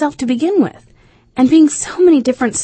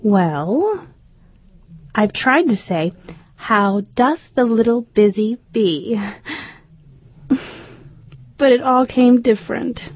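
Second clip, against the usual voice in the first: halting, understated sadness in Alice's voice; very melancholy; 4 semitones higher than usual. A narrator's reading. Alice tells of failed recitation, mildly melancholy. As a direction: hesitate between phrases, mildly downcast. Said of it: "Alice replied in a very melancholy voice".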